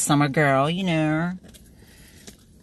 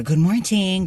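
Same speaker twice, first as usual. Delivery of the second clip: sing-song greeting, lightly; 3 semitones higher, slower than usual. Retold or imitated. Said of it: "just like how I tell you guys".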